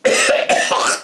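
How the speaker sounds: unvoiced hammed-up cough; fake cough. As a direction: cough like the angry man. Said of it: "he coughed".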